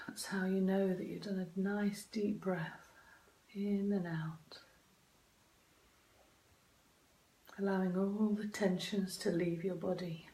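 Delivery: soft breathy meditation whisper; right in your ear. Acted.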